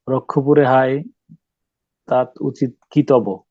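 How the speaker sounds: slow, measured verse recital with long pauses; poem recitation. Shown as a demonstration. Teacher reciting blank verse to students, measured poem recitation. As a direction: recite the lines deliberately, pausing between phrases.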